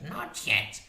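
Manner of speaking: high, loud warning crone; witch voice. A narrator's reading. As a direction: hold the monster back. Witch to harpy.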